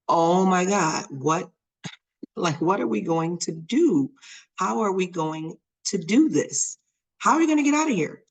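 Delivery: retold panic. Mom at the park recalling her panic over the stuck child, panicked. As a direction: act out a rising flap of panic. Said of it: "So I'm panicking, and I'm like".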